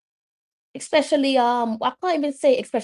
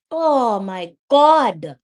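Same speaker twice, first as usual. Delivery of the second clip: slow disbelief; 3 semitones higher, 5 dB louder, much slower than usual. Real, not acted. Despair after the miss.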